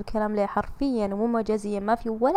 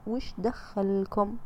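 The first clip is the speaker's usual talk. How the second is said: dismissive retort; 5 dB quieter, much slower than usual. Shown as a demonstration. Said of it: "قولي لهم كذا".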